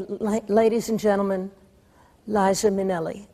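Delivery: mock announcer introducing a singer; announcer intro. Daughter asks mother for a showbiz introduction, announcer style. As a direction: announce her like an emcee. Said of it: "Just say".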